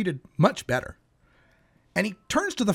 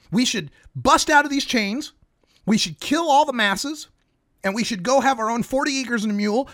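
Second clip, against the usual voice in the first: heated rant; 4 semitones higher than usual. Acted. Slave voiced urging revolt.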